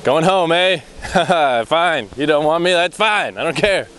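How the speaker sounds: mock hurt. Teasing the dog who goes home, mock offended. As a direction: play the jilted friend, lightly.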